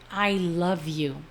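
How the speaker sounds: slow, tender declaration. Retold or imitated. Mother tells her departing son she loves him, tender. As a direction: let each word linger lovingly.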